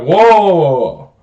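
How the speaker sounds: high, loud halting interjection; loud protest. Retold or imitated. Driver stopping a cursing manager, loud protest. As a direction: cut in big, then ease down. Acted pushback to being cursed.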